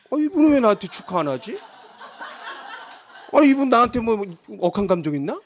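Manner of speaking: comically put-out musing; mock miffed wondering. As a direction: play petty suspicion for laughs. Acts out petty inner grumbling.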